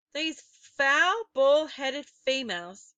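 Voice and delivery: put-on boy recoiling from the bald witches; horrified. A narrator's reading. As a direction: spit it out in disgust and fear.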